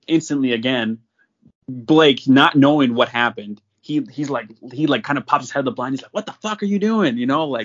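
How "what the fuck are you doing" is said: high-pitched disbelieving demand; mock-outraged buddy, higher voice; acted indignant outburst. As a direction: retell his alarm, pitched well up. Acted shocked buddy confronting shooter.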